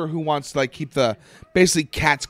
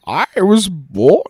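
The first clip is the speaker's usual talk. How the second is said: slow, louder mock villain line; Bane impression; 6 dB louder, much slower than usual. Friend quoting the villain's line, slow mock Bane voice. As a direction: drag it out like a masked villain. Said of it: "he doesn't crack on that one like I usually do".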